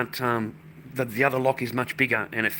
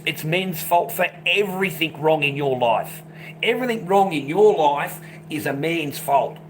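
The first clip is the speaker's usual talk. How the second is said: slow, sarcastic lecturing, louder; mocking retort; 3 semitones higher, 4 dB louder than usual. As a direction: lay it on thick, scornfully. Mocking the woman's complaint.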